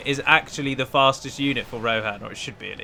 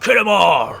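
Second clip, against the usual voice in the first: gruff, rowdy battle cry, higher and louder; gruff orc voice; 7 semitones higher, 9 dB louder, slower than usual. Shown as a demonstration. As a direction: bark it like a rough pirate orc. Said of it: "I should say it in a gruff, ready voice".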